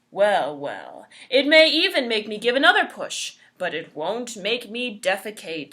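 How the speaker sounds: loud defiant boast. Acted. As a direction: dare it to try. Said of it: "so he exclaimed defiantly".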